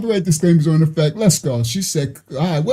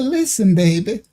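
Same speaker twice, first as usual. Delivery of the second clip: soothing Southern talk. Retold or imitated. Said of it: "that's that soothing Southern talk".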